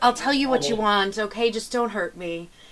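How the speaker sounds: defeated mock pleading tone. Retelling a beaten villain giving up to the party: imitating a defeated plea. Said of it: "his face melts and he just kind of sinks to the ground".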